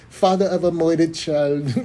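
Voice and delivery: hammed-up Spanish accent, breaking into laughter; attempted Spanish accent. Co-host spoofing the actor's audition, shaky Spanish accent attempt. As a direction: struggle through a fake Spanish accent, laughing. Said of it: "accent's hard".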